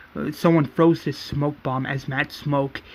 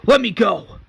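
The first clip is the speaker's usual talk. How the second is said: higher, louder demand; acted protest; 6 semitones higher, 5 dB louder than usual. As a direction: act out struggling to break free. Acting Sasha struggling to get free.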